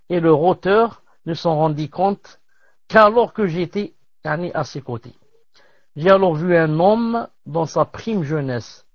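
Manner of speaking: measured reading of a tale; story narration. Acted. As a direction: read the tale out phrase by phrase, with pauses. Reads a translated tale aloud. (lecture posée d'un récit)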